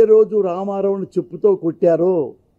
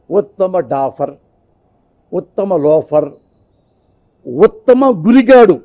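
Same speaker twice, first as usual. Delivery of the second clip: slow, building to a loud sarcastic call-out; sarcastic emcee reading fake awards; mock award announcement; 5 dB louder, slower than usual. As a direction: announce the insults like award titles, louder each time. Mock award titles read out.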